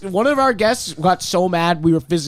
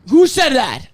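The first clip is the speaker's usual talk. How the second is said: shocked; 12 semitones higher, 7 dB louder, slower than usual. Real, not acted. Shocked outburst at comment.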